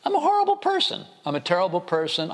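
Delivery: mock self-pity. Mocks his own self-pity at dinner.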